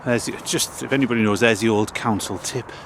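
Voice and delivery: breathless, puffing between words; out of breath. Real, not acted. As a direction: talk while catching your breath. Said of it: "sorry, I'm out of breath".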